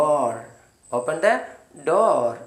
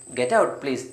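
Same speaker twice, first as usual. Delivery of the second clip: kindly; much slower than usual. Shown as a demonstration. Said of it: "സ്നേഹത്തിൽ പറയണമെങ്കിൽ".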